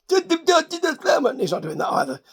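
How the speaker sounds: very slow mumbled mobster voice; mock mobster. Recapper mocking Tony D again, slow mumbled mobster voice. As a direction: drawl it like a lazy gangster. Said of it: "mocking Tony D's mobster talk".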